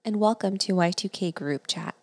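measured, scripted host introduction; podcast intro read. Acted. Host introduces the artist to listeners, scripted intro read. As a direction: read it as a prepared welcome.

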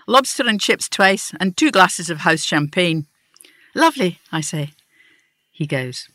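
reading a story aloud to the group; measured storytelling voice; lightly voiced reading of a short story; story narration. A narrator's reading. Reads her story aloud.

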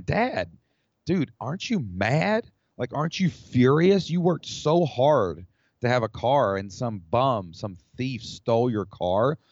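put-on boy confronting his smiling dad about the stolen car, indignant; retold indignation. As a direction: plead with dad like an upset kid. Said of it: "like, furious".

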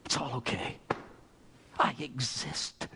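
quiet acted prayer with long pauses; Saint Teresa. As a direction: let it sink to a soft, halting prayer. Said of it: "And said, "God".

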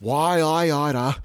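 high, loud cartoon outrage; hammed-up fist-shaking anger; mock threat. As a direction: draw out a blustering mock threat.

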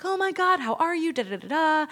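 high, mock-delighted squeal of hello; gushing greeting. Client greeting a girlfriend at the festival, imitated gushing.

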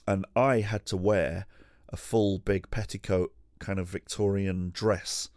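ordinary talk, nothing marked

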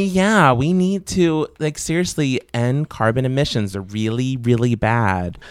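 mild mock of her earnest way of talking; lightly voiced politician, slow at the end. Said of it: "'cause she talks like this".

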